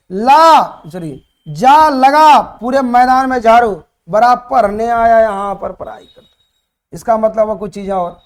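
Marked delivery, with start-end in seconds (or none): 0.1-6.2 stern teacher barking orders, a little louder and slow; mock scolding of a pupil, ordering him to sweep; retold angry shout. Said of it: "चीख कर बोले".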